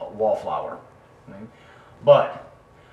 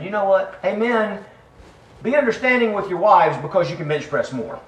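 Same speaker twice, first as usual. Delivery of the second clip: mock bragging; 9 semitones higher, 8 dB louder than usual. Mock quote of Peter bragging.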